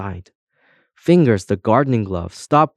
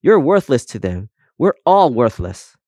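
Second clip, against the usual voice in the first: louder, higher despairing lament; mildly hammed-up misery; wailing; 4 semitones higher, 5 dB louder than usual. A narrator's reading. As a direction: wail it out hopelessly. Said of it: "wailed Colm".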